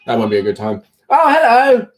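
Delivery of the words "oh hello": pet greeting. Real, not acted. Greeting the cat coming in.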